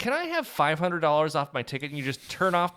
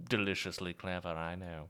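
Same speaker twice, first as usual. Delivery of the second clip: put-on villain voice; 9 semitones lower, 11 dB quieter than usual. Trying out an impression still being worked on, Thrawn impression. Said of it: "That's my Thrawn impression I'm working on".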